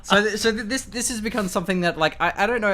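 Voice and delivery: high, laughing while speaking. Real, not acted. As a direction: talk through a laugh. Laughing at the request.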